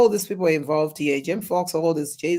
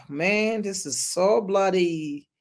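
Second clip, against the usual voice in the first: ordinary delivery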